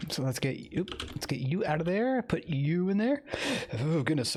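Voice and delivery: talking through hiccups. Real, not acted. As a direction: hiccup breaking the words. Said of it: "I got the hiccups going on".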